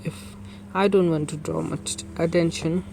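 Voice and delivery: slow menacing read of game text; voicing game villain. Streamer voicing the villain, slow and steady. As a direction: read the threat slowly and evenly.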